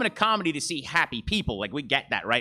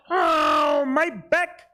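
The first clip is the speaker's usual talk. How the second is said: Jewish Chewbacca; 8 semitones higher, much slower than usual. Pretend. Comedian doing Chewbacca for the crowd, high and pained. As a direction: whine like an aching old wookiee. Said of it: "This is Jewish Chewbacca".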